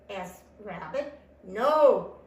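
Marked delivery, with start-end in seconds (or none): 1.4-2.2 loud groaned refusal; groaning. A narrator's reading. Tortoise refusing Rabbit, groaning. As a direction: groan it out forcefully. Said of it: "groaned Tortoise".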